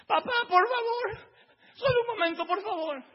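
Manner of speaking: ruego agudo, lento y llorando; súplica llorosa. Acted. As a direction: suplica entre sollozos. Isaac suplica llorando. (Isaac le ruega a su padre llorando)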